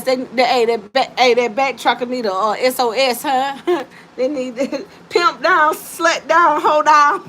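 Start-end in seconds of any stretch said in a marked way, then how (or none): 4.2-7.2 laughing rhyme. Real, not acted.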